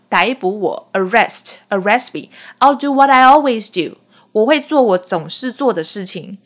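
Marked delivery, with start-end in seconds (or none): 2.1-4.0 father's line. Retold or imitated. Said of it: "他爸爸就说".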